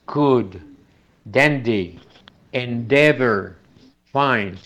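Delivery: put-on Children, ready, dad with a light tapped d; teacher's word list; model d words. Shown as a demonstration. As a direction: say each d word slowly as a model. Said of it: "se pronuncia como R española".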